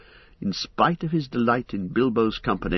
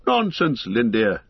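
a scoffing, snorted retort; mild scornful snort; snorting dismissal. Acted. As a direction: brush the elf off with a snort. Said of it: "snorted Bilbo".

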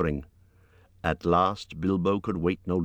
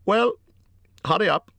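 much higher, louder urging call; Bilbo urging; 14 semitones higher, 5 dB louder than usual. A narrator's reading. Bilbo urging Gollum to go, loud and eager. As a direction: hurry him along.

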